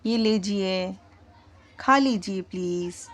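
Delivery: soft, low-pitched, gentle request; polite request. Shown as a demonstration. Teacher showing students how a request sounds, polite request. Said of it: "request होती है".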